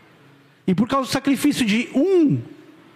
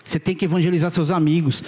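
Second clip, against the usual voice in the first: ordinary talk, nothing marked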